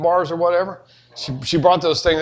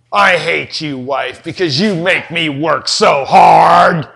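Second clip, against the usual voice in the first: mock complaint; 2 semitones lower, 4 dB louder, slower than usual. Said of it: "I am not saying".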